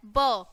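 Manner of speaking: ब as "buh", consonant plus short vowel; letter sound demo. Shown as a demonstration. Teacher showing the sound of B, letter sound demo. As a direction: sound out ब on its own. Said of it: "बी की sound कैसे आती है".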